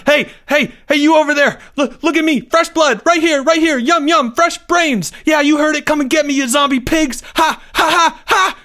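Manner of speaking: high, loud shouts at frantic pitch; whooping taunt. A narrator's reading. Boy luring zombies away from his friends, whooping taunts. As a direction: whoop and holler to draw them over. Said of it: "Leo's voice whooping and fading away".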